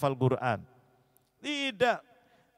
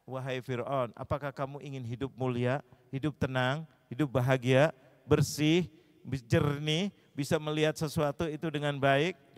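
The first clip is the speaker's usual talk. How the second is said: gentle invitation; 2 semitones lower than usual. Retold or imitated. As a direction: invite Pharaoh kindly to a good life. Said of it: "pakainya kalimatnya lembut". (ajakan lembut kepada Fir'aun)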